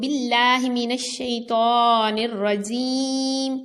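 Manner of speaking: slow, measured Quranic chant; slow reverent recitation of اعوذ باللہ. Shown as a demonstration. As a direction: recite it slowly with tajweed. Quran recitation opening a lesson.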